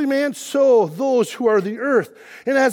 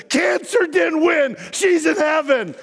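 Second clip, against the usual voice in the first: dad's shouted triumph; 5 semitones higher, slower than usual. Retold or imitated. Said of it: "But he went".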